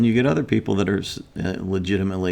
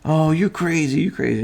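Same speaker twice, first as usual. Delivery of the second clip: a hint of the wife sneering, higher; tossing the insult back, mildly imitated; lightly voiced wife calling him crazy; mocking insult; 9 semitones higher, 5 dB louder than usual. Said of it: "they're calling me names".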